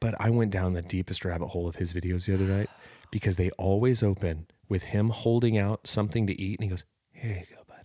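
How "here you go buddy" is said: put-on quiet soft asmr whisper. Imitating a video creator offering food to the camera: imitating a quiet ASMR voice. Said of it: "Really quietly, A S M R style".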